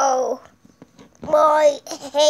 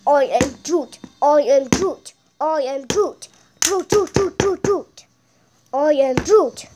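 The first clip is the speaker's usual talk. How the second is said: Groot. Pretend. Plays Groot repeating catchphrase.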